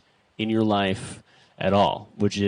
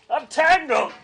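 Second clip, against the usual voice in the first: real yelp of alarm, much higher; 3 dB louder than usual. Real, not acted. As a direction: cry out, caught in cables. Caught in cables, calling out.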